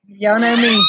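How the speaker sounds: ordinary talk, nothing marked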